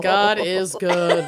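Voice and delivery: slow mock prayer voice. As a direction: intone it like a prayer. Mock grace.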